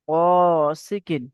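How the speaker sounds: slow, long-held chanted reading of the word; drawn-out recitation. Shown as a demonstration. Teacher chanting a word slowly for students. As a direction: stretch each syllable like Quran recitation. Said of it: "তারপর উচ্চারণ করলেন".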